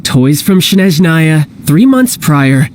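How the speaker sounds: spelled out slowly, word by word; slow, deliberate repeat. Acted. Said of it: "I'll say it again".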